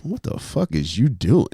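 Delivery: slow, drawn-out incredulous player voice; a kid calling out his spazzing coach; player yelling at coach. Retold or imitated. Player on the team reacting to his coach's meltdown. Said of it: "one of the kids on the team goes".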